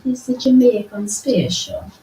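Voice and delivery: playful Jamaican accent. Shown as a demonstration. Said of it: "That's my Jamaican accent".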